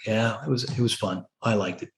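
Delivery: lightly imitated reluctant son, low and soft; begrudging admission. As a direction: concede it grudgingly, voice dropped. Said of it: "begrudgingly has to say that".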